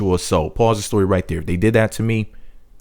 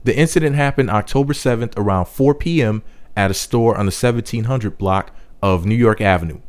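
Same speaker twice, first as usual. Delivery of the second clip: reading the article aloud like a news report. Shown as a demonstration. Vlogger quoting the Huffington Post to viewers, news-read style. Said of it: "and I quote".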